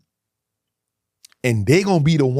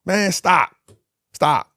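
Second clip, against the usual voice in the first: louder, higher pleading stop; higher, louder desperate pleading; begging; 6 semitones higher, 4 dB louder, much slower than usual. Retold or imitated. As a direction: beg them to stop. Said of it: "I'm crying".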